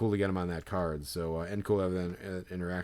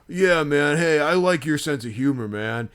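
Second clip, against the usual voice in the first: put-on drunk fan; 5 semitones higher, 7 dB louder than usual. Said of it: "he's like".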